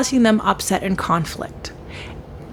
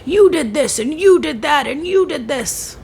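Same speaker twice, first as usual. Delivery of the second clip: higher-pitched accusing rattle; a mild imitation of pointing the finger; lightly acted accusation, stacking blame; mock finger-pointing blame; 5 semitones higher than usual. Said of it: "finger pointing, blame, blame, blame".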